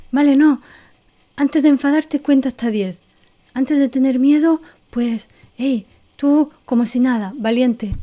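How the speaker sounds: hammed-up inner voice ordering yourself to be calm; mock self-pep talk. Teacher imitating someone forcing themselves to be brave, loud mock pep talk. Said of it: "Y es como".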